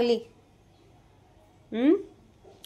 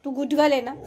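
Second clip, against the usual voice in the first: ordinary delivery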